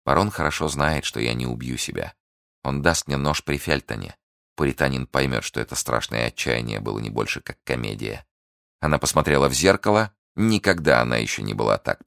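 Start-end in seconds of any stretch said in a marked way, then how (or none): 0.1-8.3 soft, sinking inner monologue; scheming Milady's thoughts. Acted. Schemer alone fearing exposure, soft and brooding.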